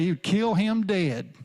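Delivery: lightly drawn-out hint of a Southern hick; slow folksy twang, barely put on; Gomer Pyle. Preacher quoting a TV bumpkin, lightly voiced twang. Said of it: "as Gomer Pyle would say".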